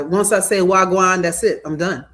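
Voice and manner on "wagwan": brief, louder Jamaican greeting; a quick stab at a Jamaican accent. Shown as a demonstration. Host showing how little Jamaican accent they can manage, Jamaican accent. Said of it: "I would not put Jamaican accent".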